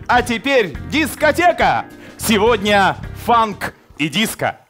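party announcer shout. Retold or imitated. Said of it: "Так и хочется сказать".

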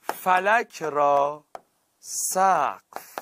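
each word drawn out slowly; slow teaching example. Shown as a demonstration.

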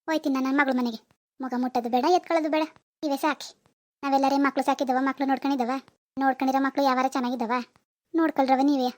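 a grandmother's sulking farewell; hurt sulky grumble. Acted. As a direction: mutter it hurt, turning away. Grandmother sulks, walking away.

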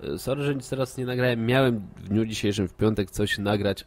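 stuffy nose from a cold; blocked nose. Real, not acted. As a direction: talk through a blocked nose. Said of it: "mam zatkany nos".

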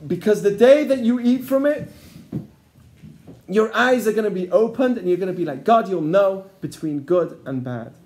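a touch of a persuasive snake; the snake to the woman, lightly voiced temptation; tempting snake. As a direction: lure her in, promising. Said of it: "Now goes the snake and he says".

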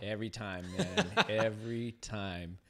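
exasperated laugh through the words. Real, not acted. Host fumbles the listener's name, laughing in exasperation. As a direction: laugh at your own slip.

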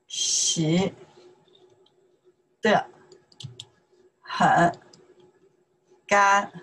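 each syllable slowly on its own, from 我 through 净. Shown as a demonstration. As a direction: spell out every syllable with long gaps, like dictation for beginners.

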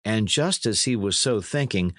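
ordinary delivery, nothing marked

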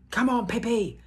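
high, loud cheering yell; children cheering. Acted. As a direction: cheer your friend on. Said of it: "yelled Tommy and Annika".

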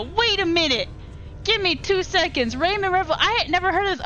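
can't believe what you just read; real astonishment at news; excited. Real, not acted. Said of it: "I was so excited".

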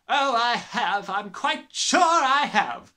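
slow, high, loud gloating; grinning. Acted. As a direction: savor it with a grin.

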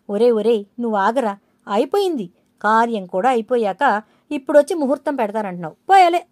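scolding shout. Acted. Elder scolds son for lateness.

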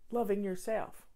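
whisper. Real, not acted. Host's tender aside to viewers.

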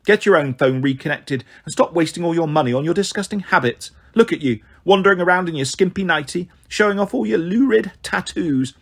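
disdainful, scolding neighbour voice; indignant lecture from a disapproving neighbour. Acted. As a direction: tell them off with withering disapproval. Neighbour scolds in acted dialogue.

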